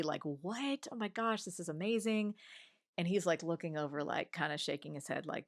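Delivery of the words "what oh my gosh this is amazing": higher, lightly excited squeal of friends; mock giddy girls. Girls giddy over the heart news, higher mock excitement. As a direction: play the giddy friends gasping with delight. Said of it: "all these girls are super giddy".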